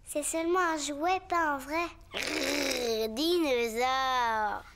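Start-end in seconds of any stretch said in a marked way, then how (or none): 2.1-4.6 slow playful growl of the word; little boy pretending to be a dinosaur. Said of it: "Est-ce que c'est un dinosaure?".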